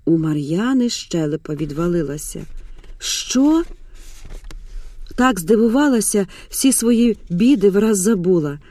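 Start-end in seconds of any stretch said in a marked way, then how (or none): 3.0-3.6 high, rising disbelief; jaw-dropped questioning 'what?'; stunned surprise. Acted. Челюсть отвисла от изумления.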